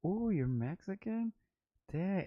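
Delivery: high, cooing imitation of a flirting caller; mock flirty woman. Mocking women who called the shop, in a high cooing voice. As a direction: coo it up high like a smitten caller.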